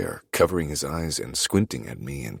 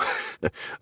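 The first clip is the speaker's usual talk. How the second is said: short laugh; 5 dB quieter than usual. A narrator's reading. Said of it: "through a laugh".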